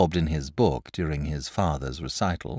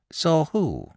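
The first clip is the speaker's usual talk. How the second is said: nervous; 10 semitones higher, 3 dB louder than usual. Acted. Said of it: "share in her husband's nervous terror".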